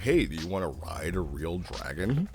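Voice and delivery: ordinary talk, nothing marked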